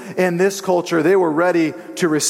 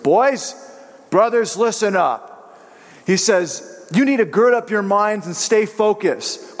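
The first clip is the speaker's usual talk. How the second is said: raised, higher voice of a fed-up mentor; stern reprimand; 4 semitones higher than usual. Retold or imitated. Pastor reprimands yawning students, stern and raised. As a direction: scold the sleepy students, pitched high and firm. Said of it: "reprimanded us in a moment".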